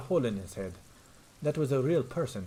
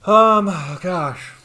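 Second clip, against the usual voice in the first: taken aback; 8 semitones higher, 12 dB louder, much slower than usual. Real, not acted. Reacting to a silly case name.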